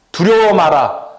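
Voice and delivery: forceful preacher's exhortation; firm command. Retold or imitated. Jesus' words pressed on the congregation, firm and emphatic. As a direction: lift it into a firm charge.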